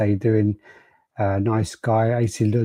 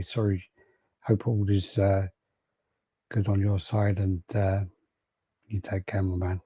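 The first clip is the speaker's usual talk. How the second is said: sincere condolence; 6 dB quieter than usual. Real, not acted. Condolences to viewer after funeral.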